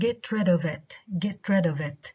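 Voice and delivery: "of it" unstressed, tucked in after "rid"; stress on rid. Shown as a demonstration. Teacher giving first example, stress on "rid". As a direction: stress "rid", keep "of it" weak. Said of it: "the stress is on the second word".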